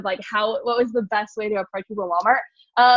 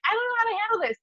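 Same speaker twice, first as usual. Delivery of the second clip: flustered aside; 11 semitones higher, faster than usual. Retold or imitated. Flustered by argumentative mother.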